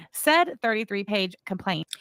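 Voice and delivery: "complaint" given pointed emphasis; stress on complaint. Real, not acted. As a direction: lean on "complaint" as a quoted word. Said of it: "adding the emphasis on the word complaint".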